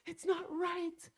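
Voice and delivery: retold complaint. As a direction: imitate a grumbling objection. Retelling kids' complaint about the song.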